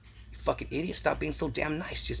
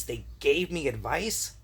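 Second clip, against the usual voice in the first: slow insistence; 3 semitones higher, slower than usual. Shown as a demonstration.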